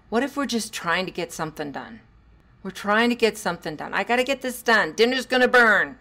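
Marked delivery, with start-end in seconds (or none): 3.9-6.0 higher, louder, fast stressed parent; busy parent brushing the kid off; harried parent. Retold or imitated. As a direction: rush it like dinner's about to burn.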